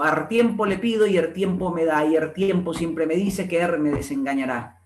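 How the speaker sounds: coastal dialect verse with R for L in AR; understated dialect recitation; recited dialect verse. Acted. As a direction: recite it lightly in Montubio dialect. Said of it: "recita aquí un lindo verso".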